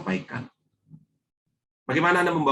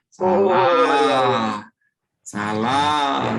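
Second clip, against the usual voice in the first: a firm, louder verdict of wrong; blaming tone; 4 dB louder, much slower than usual. Retold or imitated. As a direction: say it like you're rejecting their answer. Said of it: "Seolah-olah saya menyalahkan jawaban Anda". (nada menyalahkan yang tegas)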